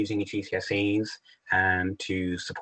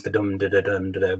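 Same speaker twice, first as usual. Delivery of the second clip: "dum" stressed, each "da" light and short; metre beats. Shown as a demonstration. Teacher tapping out the rhythm of the line: "dum" stressed, "da" light. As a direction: beat it out: "dum" strong, "da, da" weak. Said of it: "listen to the sounds".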